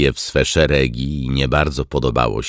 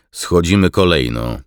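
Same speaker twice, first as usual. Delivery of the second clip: firm order, a bit louder and higher; commanding; 5 semitones higher, 6 dB louder than usual. A narrator's reading. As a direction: give the order to the squadron. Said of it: "rozkazał i wyłączył odbiornik". (stanowczy, podniesiony rozkaz)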